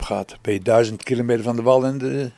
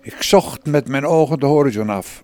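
solemn, louder storyteller voice; dramatic reading; 2 semitones higher, 6 dB louder than usual. Acted. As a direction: read the diary like a lonely epic. (plechtig voorgelezen dagboek)

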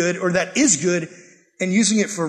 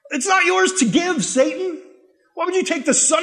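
indignant rebuke; 9 semitones higher than usual. Real, not acted. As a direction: shout it at the devil in outrage. Preacher rebukes Satan.

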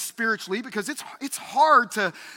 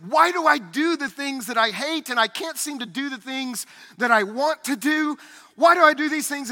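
higher, mildly exasperated self-questioning; voiced frustration; 4 semitones higher than usual. Pastor voices Paul's struggle in Romans seven, frustrated. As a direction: plead with yourself in frustration, pitched up. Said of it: "in this frustration of".

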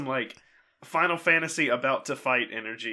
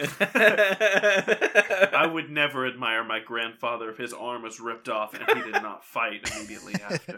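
haughty noble voice; 5 dB louder, slower than usual. Acted. Character's haughty reply.

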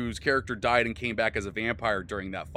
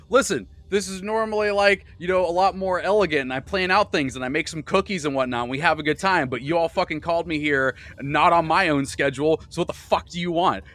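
flustered hostess voice; 5 semitones higher, 4 dB louder, faster than usual. Acted. Missus Fox voiced ranting.

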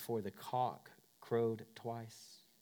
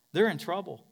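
ordinary delivery

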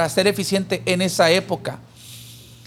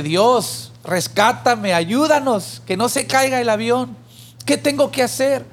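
mildly panicked prayer, rising higher as it goes; desperate plea; 4 semitones higher than usual. Acted. Frightened passenger cries out to God in turbulence, a mildly desperate plea. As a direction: plead for rescue with understated desperation. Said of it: "en su desesperación empezó a clamar a Dios".

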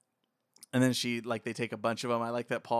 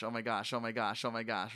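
ordinary talk, nothing marked

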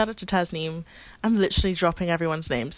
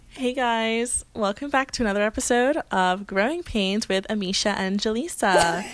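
Canadian-American accent. Shown as a demonstration. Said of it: "my Canadian American one".

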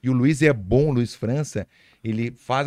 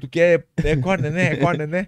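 mock Japanese-style Portuguese; 3 semitones higher, slower than usual. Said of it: "Fica meio retardado".

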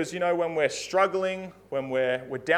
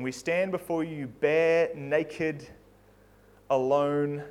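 earnest prayer. Acted. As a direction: pray humbly over the congregation. Pastor closes with prayer.

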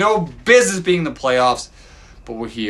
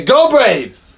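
put-on higher, louder cheer for the kid to copy; prompting a child; 7 semitones higher, 5 dB louder than usual. Father prompts his little daughter to cheer, higher and louder. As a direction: cheer it out for your daughter to repeat.

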